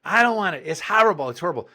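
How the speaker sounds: high, whiny child imitation; mock tantrum whine, fading at the end; refusing kid. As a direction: mimic a bratty boy digging in. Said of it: "his mother has antagonized him".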